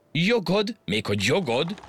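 outraged high squeal of disbelief; indignant disbelief. Acted. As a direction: scoff at the very idea. Majom felháborodik. (magas, felháborodott hitetlenkedés)

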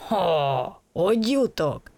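triumphant at the plan; happy idea. A narrator's reading. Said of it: "rögtön vidámabb lett". (vidám, hangos felismerés nevetéssel)

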